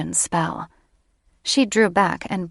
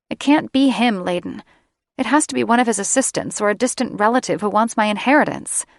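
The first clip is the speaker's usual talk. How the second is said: higher, insisting, fast; upset young woman, higher; 4 semitones higher, 3 dB louder, faster than usual. Acted. Sarah insists to Layden her grandfather is innocent, fast and higher. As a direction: rush through it, refusing the truth.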